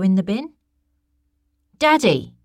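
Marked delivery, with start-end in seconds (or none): 1.8-2.3 loud, high yell for her parents. A narrator's reading. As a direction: call out in alarm, high and loud. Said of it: "she yelled".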